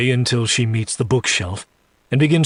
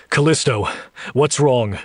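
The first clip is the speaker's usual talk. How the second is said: firm man's voice, a touch raised; stern, manly; 3 semitones higher than usual. Acted. Jack questioning the startled woman, stern. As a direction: demand an answer with mild sternness. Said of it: "Jack says in a stern, manly voice".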